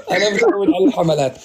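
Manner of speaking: light laugh into the words. Real, not acted. Host laughing off the campaigns against him. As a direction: shrug it off with a laugh.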